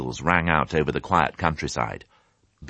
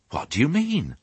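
put-on young piglet; 9 semitones higher than usual. A narrator's reading. Piglet questions old sheep.

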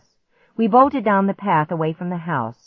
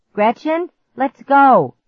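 high, loud urgent shout; urgent call; 8 semitones higher, 8 dB louder, slower than usual. Acted. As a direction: hurry her along. Clark urges escape.

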